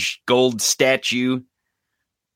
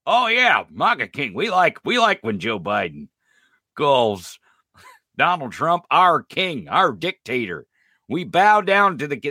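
mocking MAGA fans. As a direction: play them as gleeful and clueless. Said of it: "And they're like".

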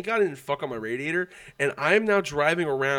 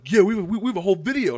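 eager informant; 5 semitones higher, 6 dB louder, much faster than usual. Retold or imitated. Acts out eager guy telling the cops.

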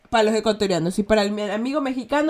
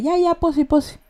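higher, mocking "Ya, ya, posi, posi" that means I don't believe you; sarcastic posi; 6 semitones higher, 3 dB louder than usual. Shown as a demonstration. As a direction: drag out "posi" with disbelief. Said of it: "Eso implica que no le cree".

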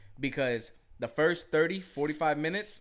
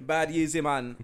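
put-on Jamaican accent; 3 dB louder than usual. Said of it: "gotta be in a Jamaican accent".

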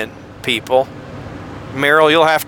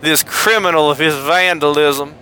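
put-on wealthy Mississippi accent; 3 semitones lower than usual. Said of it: "more of a wealthy person from Mississippi".

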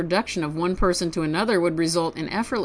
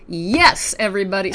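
a quick loud burst of enthusiasm; sudden yell; 4 dB louder than usual. Real, not acted. Host yelling yes to listeners, loud and eager. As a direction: shout it out to the whole audience. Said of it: "Sorry, I just yelled".

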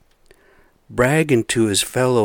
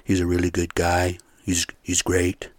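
imitating Trump. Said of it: "Trump was always saying".

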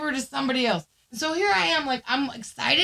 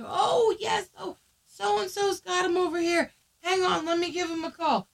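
higher-pitched local lady; helpful neighbor lady; 5 semitones higher than usual. Retold or imitated. Neighbor telling searchers who has the dog, helpful.

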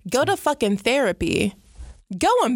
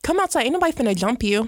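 mock challenge; 2 semitones higher, much faster than usual. Host mock-dares someone to come outside, quick taunting challenge. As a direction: throw out the challenge, rattling off the end.

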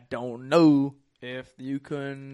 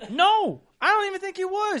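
laughing; 3 dB louder than usual. Real, not acted. Laughing at Mennonite joke.

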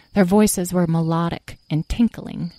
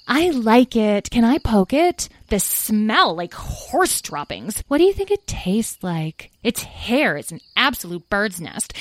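higher-pitched fairies, disgusted then curious; chattering fairies; 4 semitones higher, slower than usual. Acted. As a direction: play a gaggle of fairies sizing up an oddity. Fairies chatter over the human.

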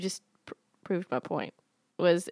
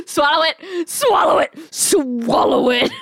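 urging; 4 semitones higher, 3 dB louder than usual. Real, not acted. Urging co-host to drink.

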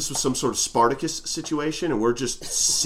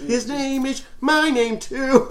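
attempted Maine accent; 4 semitones higher than usual. Host tries the song as a Mainer, bad Maine accent. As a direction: stretch it in a shaky-quality Maine accent. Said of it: "That's not a good Maine accent".

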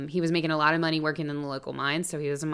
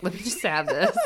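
laughing imitation. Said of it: "so he was like".

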